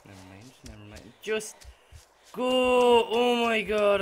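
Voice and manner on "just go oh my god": very loud, high shout; angry shout. Real, not acted. Gamer screaming at his character to run, angry shout. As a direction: scream at her to go.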